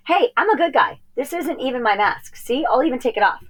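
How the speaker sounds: put-on high, pleading kid voice; pleading boy. Boy pleads with the posse, high and urgent. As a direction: beg the posse, voice pitched high.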